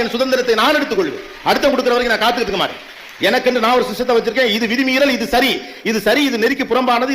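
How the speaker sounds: defiant self-assertion. Acted. Speaker voicing a youth who claims their own freedom, defiant. Voices a self-reliant young person's declaration.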